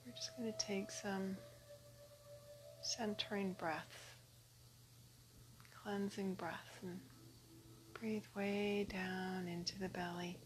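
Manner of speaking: soft, unhurried meditation voice with long pauses; guided meditation. Acted. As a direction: settle them gently into breathing. Leads a meditation.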